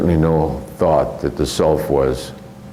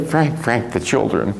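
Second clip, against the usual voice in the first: scolding grandmother; 4 semitones higher than usual. Retold or imitated. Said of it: "And she'd say".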